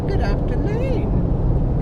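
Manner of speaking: high, slow sing-song good afternoon; sing-song greeting. Pretend. Mock formal greeting.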